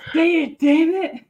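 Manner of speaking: mock-demanding, like a pushy pet; voicing the cat. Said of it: "She's like".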